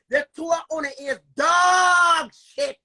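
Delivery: a tearful yell at them; crying angry outburst. Real, not acted. Cursing out Colin and his friend, tearful yell. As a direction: spit it out near tears, loud.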